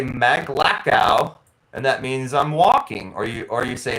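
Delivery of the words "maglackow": "Maglackow" said slowly, syllable by syllable; teaching the word "Maglackow" slowly; slow Tagalog word. Shown as a demonstration. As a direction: spell out "Maglackow" carefully. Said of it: "you can say".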